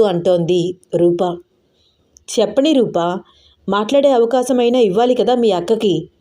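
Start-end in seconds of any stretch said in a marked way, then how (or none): 2.3-6.1 very serious. Acted. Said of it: "చాలా సీరియస్గా అన్నాడు అర్జున్".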